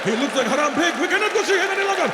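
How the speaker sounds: put-on high, agitated foreign-accented voice; fast, high-pitched accented outrage; mock Muslim friends' accent. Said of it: "because they're like".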